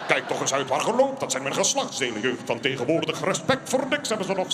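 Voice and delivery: grumbling put-on old codger; lightly voiced cranky old man; grumpy old man. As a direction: scold the youth like a cranky elder. Grumpy old man scolding youth.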